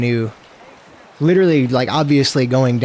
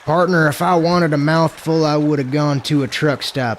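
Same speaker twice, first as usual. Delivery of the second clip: put-on southern accent; 3 semitones higher than usual. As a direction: put on a folksy southern twang. Keeps up requested southern cowboy voice.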